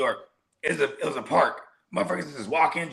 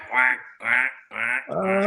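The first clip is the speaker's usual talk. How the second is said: repeated quacks like a passing car; evenly spaced mock quacks; imitated duck sound; 3 semitones lower, much slower than usual. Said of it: "with a duck sound".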